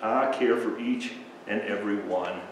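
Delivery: softening to a hush by the end; Jesus lovingly telling the crowd he cares; tender Jesus. Acted. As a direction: speak gently to every child.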